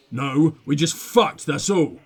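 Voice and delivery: casual and low, no big deal; matter-of-fact. Acted. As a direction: state it as a simple fact, unbothered. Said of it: "He states matter-of-factly".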